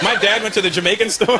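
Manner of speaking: ordinary talk, nothing marked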